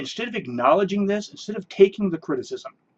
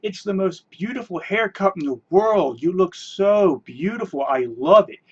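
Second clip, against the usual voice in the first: mock gushing. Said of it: "and everybody said".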